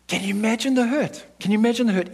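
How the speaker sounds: aching plea. Real, not acted. Preacher close to tears asking the church, high and aching. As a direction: press the hurt home, pleading.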